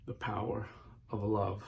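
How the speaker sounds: quiet refrain. Real, not acted. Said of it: "repeated refrain".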